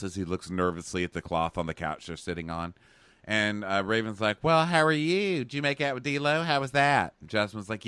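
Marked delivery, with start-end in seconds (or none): 4.4-7.1 high, pointed questions; mock prying. Raven giving Dean a hard time, mock prying. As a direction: pile on the questions in a raised voice.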